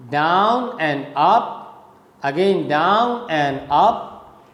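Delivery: "down and up" slowly, ending on a rise; down-and-up rhythm. Shown as a demonstration. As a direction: draw out "down" and lift "up". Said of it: "you can say the rhyming, the, the rhythm".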